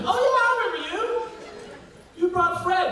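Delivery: very high, hammed-up delight; excited recognition. Retold excited reply on recognizing him.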